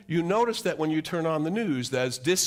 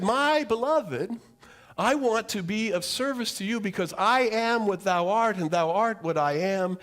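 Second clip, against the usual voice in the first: devout spirit; 5 semitones higher, 4 dB louder than usual. Retold or imitated. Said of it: "spiritual being who said".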